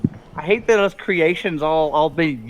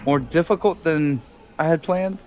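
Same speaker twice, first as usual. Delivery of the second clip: refined Bob; 3 semitones lower than usual. Acted. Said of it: "He sounds more refined".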